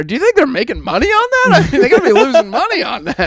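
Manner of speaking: high, hurried put-on astonishment; fast, high, overdone disbelief; mock amazement. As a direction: pester with fake wide-eyed wonder. Baiting dad over radio ad.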